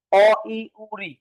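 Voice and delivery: অ, ই, উ, রি said short and in quick succession; quick short vowels. Shown as a demonstration. Teacher showing short vowels take little time, said quickly. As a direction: rattle off অ, ই, উ, রি with no lengthening. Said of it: "দ্রুত উচ্চারণ করা যায়".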